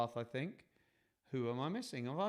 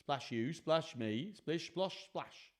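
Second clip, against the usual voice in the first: northern English accent; 3 semitones higher, slower than usual. Shown as a demonstration. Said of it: "if I read it in a northern accent".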